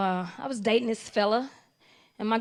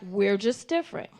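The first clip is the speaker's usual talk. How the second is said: call and response; 4 semitones lower than usual. Shown as a demonstration. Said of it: "repeat it after me".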